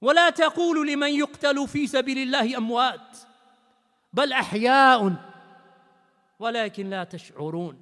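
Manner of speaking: rapid, flowing Arabic recitation; Quran recitation. Acted. Preacher reciting the verse to his congregation, chanted recitation. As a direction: recite the verse in one rising breath.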